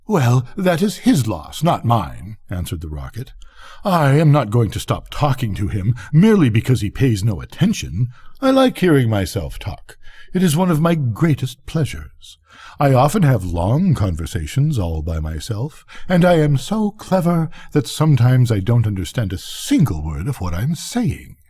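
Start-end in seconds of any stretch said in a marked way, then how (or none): 0.1-2.4 haughty dismissal. Acted. Rocket brushing off being ignored. 3.9-21.4 lightly voiced self-admirer; conceited rocket. Rocket boasting to the dragonfly, mildly conceited.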